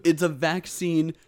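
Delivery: high, slow laughing announcement; laughing mock pitch.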